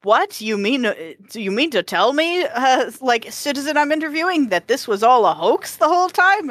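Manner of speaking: mock incredulous reporter. Acting out an astonished live interviewer.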